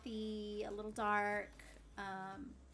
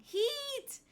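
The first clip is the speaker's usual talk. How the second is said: high, loud, bright-eyed hello shout; excited greeting; 14 semitones higher, 11 dB louder, much slower than usual. Real, not acted. Streamer calling out to viewer Heat in chat, excited shout. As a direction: call out to a friend who just showed up.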